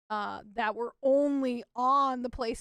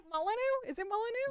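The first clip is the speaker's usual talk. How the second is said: unsure questioning; 10 semitones higher, 3 dB quieter, faster than usual. Real, not acted. Unsure of a name's pronunciation.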